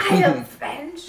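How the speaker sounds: put-on slow, heavy French accent; fake French accent. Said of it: "you are a fake French person".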